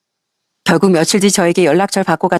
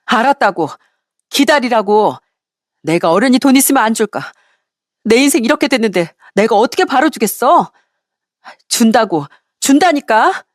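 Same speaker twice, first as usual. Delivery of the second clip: higher-pitched, defensive irritation; exasperated protest; 4 semitones higher than usual. Acted. Ex-wife cornered over unpaid child support, exasperated and defensive. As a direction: push back impatiently, pitch climbing to the last insistence.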